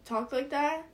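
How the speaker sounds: mock disbelief. Future family reacting in disbelief.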